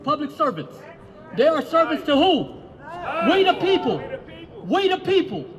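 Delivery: building from firm to full shout; rally shout. Real, not acted.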